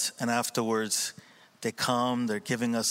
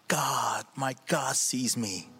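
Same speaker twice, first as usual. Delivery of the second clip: hopeful declaration; 4 semitones higher than usual. Retold or imitated. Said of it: "grabbing me and going".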